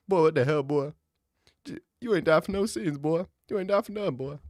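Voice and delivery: squeaky put-on voice scolding a wrestler; mock scolding. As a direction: scold him like an exasperated Jesus. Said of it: "she's gonna be like".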